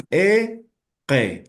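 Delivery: "E, que" in two separated syllables, both with E; E instead of I. Shown as a demonstration. Teacher shows both vowels changing, E instead of I. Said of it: "en vez de I vamos a decir E".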